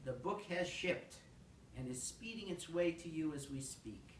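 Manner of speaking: measured storytelling poetry recital; poem reading. Acted. Poet reading the book business poem to listeners, measured recital. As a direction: read it out in deliberate, lilting phrases. Reads second poem to audience.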